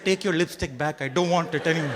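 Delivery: put-on Indian accent. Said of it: "That's the accent I had".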